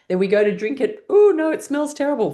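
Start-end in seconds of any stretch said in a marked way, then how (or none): 1.1-2.3 high, loud playful revulsion; playful mock horror at the smell; pretend disgust. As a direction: recoil from a foul drink, hammed up. Acting out a disgusting drink.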